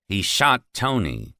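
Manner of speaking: slow, held-back anger; words pressed out in suppressed rage; through his teeth. Acted. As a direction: Leo seething at the manager. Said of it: "said Leo through his teeth".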